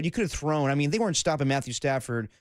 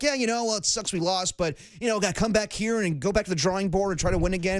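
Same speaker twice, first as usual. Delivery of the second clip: higher, cheerful press-room spin; upbeat McVay impression; 4 semitones higher than usual. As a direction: gloss over the loss brightly.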